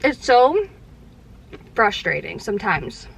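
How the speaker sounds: chewing while speaking; mouth full. Real, not acted. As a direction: talk around a mouthful. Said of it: "talking with my mouth full is so rude".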